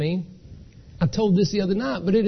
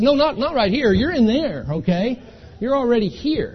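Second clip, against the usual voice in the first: loud, higher, emphatic correction; insistent staff; 6 semitones higher, 4 dB louder than usual. Retold or imitated. Hospital clerk telling the man he's already admitted, raised and insistent. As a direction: insist firmly, a bit exasperated.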